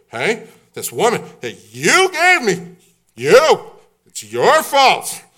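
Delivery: high, loud whining excuse; whiny blaming Adam. Acted. Adam whining and blaming the woman to God. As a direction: wail the blame onto someone else.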